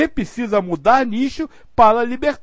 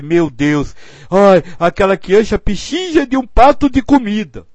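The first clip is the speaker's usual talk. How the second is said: louder, pitying cry of distress; pitying lament; 5 dB louder than usual. Shown as a demonstration. Showing the group an emotional tone, mock lament. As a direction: sigh it out as if heartbroken for the child. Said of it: "Outra coisa é você dizer".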